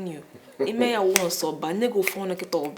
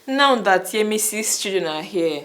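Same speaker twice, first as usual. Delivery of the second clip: louder, pressing the husband; insistent; 6 dB louder than usual. Acted. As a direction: push him hard for it. Wife demanding babies.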